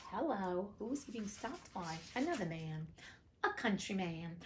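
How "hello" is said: slow, surprised hello; a mock double take on the word hello; drawn-out hello. Reader feigning surprise at a newcomer, slow drawn-out hello.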